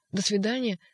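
curt goodbye; dry farewell. Acted. Ivan to the doctor, dry and curt. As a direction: cut it off coldly. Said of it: "сухо сказал".

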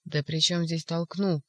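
slow, exasperated retort at the doctor's dimness; impatient, as if explaining the obvious; irritated exclamation. Acted. Ivan snapping at the doctor in mild annoyance. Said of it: "сердясь на общую бестолковость, воскликнул Иван".

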